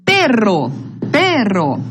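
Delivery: "Perro" twice, strong Pe, falling on rro; stress on penultimate syllable. Shown as a demonstration. Teacher modelling a palavra grave, stressing Pe in "Perro". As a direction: lean on the first syllable of "Perro". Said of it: "Penúltima é a sílaba tônica".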